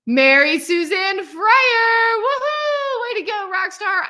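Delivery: slow sung name, high woohoo; sing-song cheer. Real, not acted. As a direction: celebrate her name in song. Announcing graduate name.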